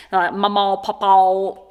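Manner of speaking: "mama, papa" each closed with an L sound; L on the endings. Shown as a demonstration. Vlogger shows Missouri accents, "mama, papa" ending in L. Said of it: "they will put an L on the end of things".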